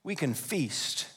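soft, slow, savored words; hushed emphasis. Shown as a demonstration. Preacher showing what Eve should have said, hushed. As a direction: let "feast" land softly and slowly. Savoring the corrected answer quietly.

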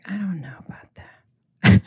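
slow doubtful whisper; slow unsure whisper; whispered skeptic. Retold or imitated. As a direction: breathe it out as a skeptical viewer. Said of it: "You might be like".

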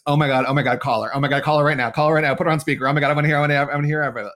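rapid, breathless-excited retelling of husband's pleas; excited urging. Retold or imitated. Husband begs her to call client with news, excited urging.

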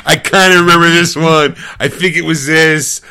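lightly voiced forgetful friend, a touch slow; mock forgetful Ed. Teasing Ed about his bad memory, mock hesitant. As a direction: play him unsure and rambling. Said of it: "you're like".

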